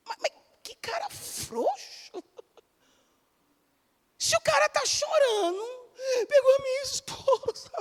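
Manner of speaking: high, soft mock outrage through laughter; mocking exasperation. Preacher mocking the weak husband, high and laughing. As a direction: scoff at him, laughing. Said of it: "eu falei assim".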